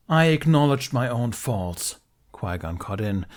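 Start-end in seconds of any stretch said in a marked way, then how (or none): 0.1-2.0 louder, slow booming voice. A narrator's reading. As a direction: boom it out, slow and firm. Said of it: "voice booming".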